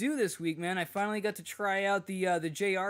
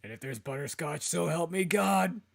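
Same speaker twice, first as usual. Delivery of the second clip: mock threat; 4 dB louder than usual. Mock threat over butterscotch.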